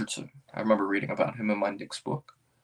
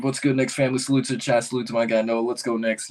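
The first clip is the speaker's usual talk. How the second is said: shouting a chat message out; loud hyped reading; 2 semitones higher, 5 dB louder than usual. Real, not acted. Streamer loudly reading a fan's chat message. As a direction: read it like a hype man. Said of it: "I'm so sorry".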